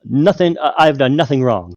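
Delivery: a hint of a nervous liar; lying gnome. Gnome bluffing the half dragon, lightly voiced nervous denial. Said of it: "He goes".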